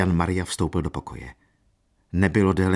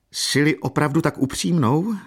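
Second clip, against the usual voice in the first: raised, high-pitched challenge; exclaiming; 8 semitones higher than usual. A narrator's reading. Marquise challenging Katerina's frankness, exclaiming. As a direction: exclaim it in mild indignation. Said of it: "zvolala markýza".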